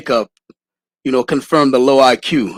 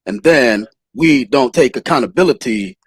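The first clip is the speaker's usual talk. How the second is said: Anthony Brian Logan's way of talking. Retold or imitated. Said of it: "That's exactly how he talks".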